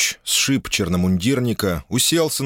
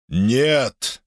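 a passionate, raised exclamation; fervent louder no; 5 semitones higher than usual. Acted. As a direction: burst out with zeal. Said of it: "с жаром погромче отозвался фанатик".

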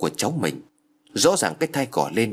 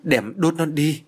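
blurted out; 5 semitones higher, slower than usual. A narrator's reading. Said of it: "cô thốt lên".

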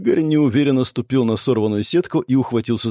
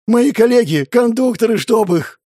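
higher, louder, cursing outburst; angry snarl; 11 semitones higher, 5 dB louder than usual. A narrator's reading. Man loading magazines curses his colleagues, angry snarl. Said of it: "прорычал Игорь".

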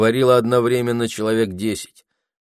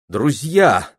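raised voice to the whole barracks; loud friendly address; said loudly; 4 semitones higher, 5 dB louder than usual. A narrator's reading. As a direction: call out to get their attention. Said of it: "сказала Нина громко".

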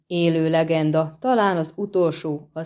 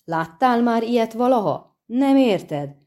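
roaring outburst; 3 semitones higher than usual. Acted. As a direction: bellow it at him in greedy disbelief. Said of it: "hördült fel Járpen Zigrin". (felhorkanó, hangos kiáltás)

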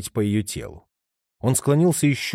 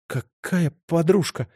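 higher, slower scared question; a touch of fear, pitched up; frightened babble; 7 semitones higher, slower than usual. A narrator's reading. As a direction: ask in mild fright. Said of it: "испуганно пролепетала Липа".

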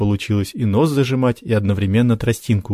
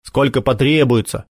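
displeased; 3 semitones higher than usual. Acted. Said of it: "недовольно поморщился Макар".

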